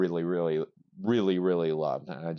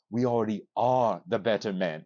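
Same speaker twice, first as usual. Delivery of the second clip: flat, cold and even; deadpan. Retold or imitated. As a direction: say it dead level, unmoved. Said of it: "looks him deadpan and goes".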